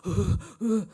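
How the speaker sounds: seething groan of rage; acted angry grunts. King boils over at the news, acted furious grunts. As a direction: groan as fury builds. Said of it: "분노 폭발".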